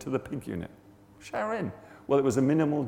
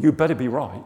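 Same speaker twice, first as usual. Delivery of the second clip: firm, louder warning; 5 dB louder than usual. Retold or imitated. Workmate warning Rog before he prays, loud warning. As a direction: warn him out loud, punchy. Acted warning, first take aloud.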